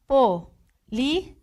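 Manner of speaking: Polícia stretched slowly with a rise; drawn out. Shown as a demonstration. Teacher slowly presenting Polícia as example. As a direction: drag out Polícia, rising at the end. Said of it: "paroxítonas terminadas em ditongo".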